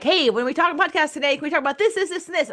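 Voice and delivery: high, upbeat co-host request; cheerful ask. Retold or imitated. Co-host asks about podcast topics, upbeat and high. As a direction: pitch it up, breezy and eager. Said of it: "And you're like".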